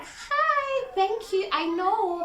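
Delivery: bright, high self-assured thank-you; confident thanks. Pretend. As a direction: accept the compliment like you expected it. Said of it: "You'll be like".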